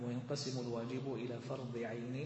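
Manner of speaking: "فرض عين" with genitive endings, fardi 'ayni; model reading. Shown as a demonstration. Teacher modelling the line for the student, endings voiced on "فرض عين". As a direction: sound the final i on "عين". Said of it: "نعم".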